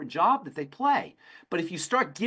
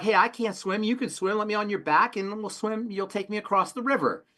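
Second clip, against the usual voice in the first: higher, coaxing scorpion voice; a scheming scorpion pleading for a ride, higher; 6 semitones higher than usual. Retold or imitated. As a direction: sweet-talk the frog into a ride, pitched up.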